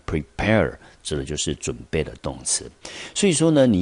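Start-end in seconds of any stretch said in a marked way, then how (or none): 0.1-0.7 "prepare" drawn out slowly, both syllables clear; pronunciation demo. Shown as a demonstration. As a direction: model "prepare" slowly for learners. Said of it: "念成". (慢速示范念prepare)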